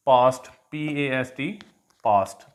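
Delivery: पास्ट with a long open aa; पास्ट said as paast, long aa; long aa in past. Shown as a demonstration. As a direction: stretch the vowel in पास्ट, spelled then said. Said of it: "लंबी आवाज़ है आ की sound".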